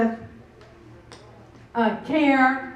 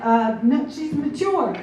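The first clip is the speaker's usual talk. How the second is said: halting, then jumping higher as you grope for words; flustered stuttering; 5 semitones higher, 3 dB louder than usual. Retold or imitated. Flustered mom answers her son's awkward question, mock stuttering. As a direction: re-enact a mom fumbling for a polite answer. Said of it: "and I'm stuttering, and I'm like".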